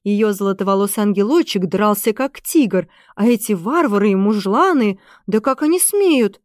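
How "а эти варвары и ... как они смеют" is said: plain reading voice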